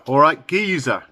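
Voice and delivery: a hint of Cockney greeting; lightly voiced Cockney. Shown as a demonstration. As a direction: greet them with mild East End Cockney. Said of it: "Cockney, East End of London".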